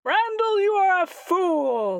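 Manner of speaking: high, loud scornful outburst; scornful shout. Acted. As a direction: snap at them like a fool. Creature scolds player loudly.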